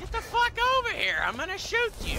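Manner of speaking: very high loud enraged yell; furious shouting. Real, not acted. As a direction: scream insults at the target. Yelling at dodging dragon.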